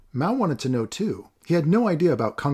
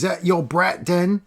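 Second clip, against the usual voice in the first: rough demand; 7 semitones higher, 4 dB louder, slower than usual. Acted. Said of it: "he demanded".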